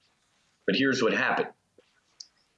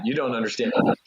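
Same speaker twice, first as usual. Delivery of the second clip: insistent to God; faster than usual. Retold or imitated. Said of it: "like me talking to God".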